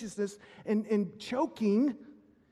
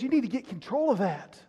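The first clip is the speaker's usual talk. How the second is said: voicing the pushy world; 3 semitones higher, 3 dB louder than usual. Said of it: "The world says".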